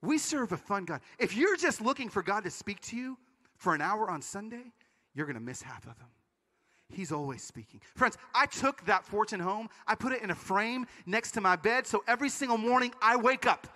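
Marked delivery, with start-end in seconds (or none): 0.0-7.8 wise wife. Retold or imitated. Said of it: "She's so wise".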